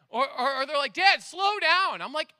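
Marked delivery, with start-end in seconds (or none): 0.9-2.0 loud, high, drawn-out mock kid; slow, raised-pitch kid ordering Dad around; imitated bossy kid. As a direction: call out like a backseat-driving child. Voices bossy backseat-driver kids.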